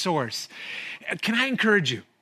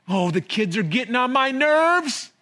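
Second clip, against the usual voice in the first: higher, exasperated complaint with a sigh-like oh; fed-up groan; 5 semitones higher, 3 dB louder than usual. Retold or imitated. Imitating a worn-out parent griping about the kids, exasperated.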